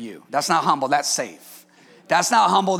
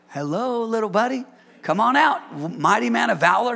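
coaxing God. Retold or imitated. God coaxing hiding Gideon.

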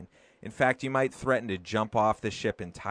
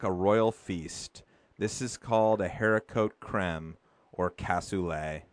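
poem reading. Acted. Reads the poem aloud.

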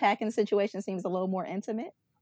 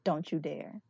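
hushed warning; 4 semitones lower, 5 dB quieter than usual. Retold or imitated. Pleading with TV character.

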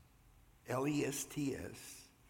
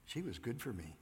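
"She" leaned on, the rest said softly; stress on she; 3 dB quieter than usual. Shown as a demonstration. Preacher showing the congregation the emphasis on "She". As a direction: put the weight on "She". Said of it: "Did you notice the emphasis?".

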